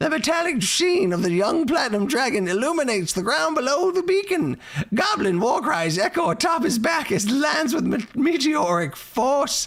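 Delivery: squeaky, very high-pitched voice. Reading a viewer's paid chat message aloud as requested, in a squeaky voice. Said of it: "squeaky voice".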